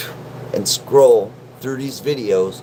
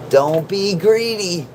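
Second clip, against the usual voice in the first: playful scold; 7 semitones higher, slower than usual. Pretend. Higher, slower second take.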